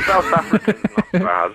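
South African accent. Shown as a demonstration. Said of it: "give us a blast of your South African".

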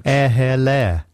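slow, sounded-out posh accent; mock posh "oh hello". Shown as a demonstration. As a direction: draw out the words in a posh accent. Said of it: "the one that makes you sound posh".

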